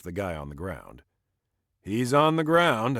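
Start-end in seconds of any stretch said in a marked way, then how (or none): 1.8-3.0 breathless and louder after the fight; panting. Acted. Jake answers Evan out of breath from the fight, panting. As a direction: gasp it out, winded. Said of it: "I pant".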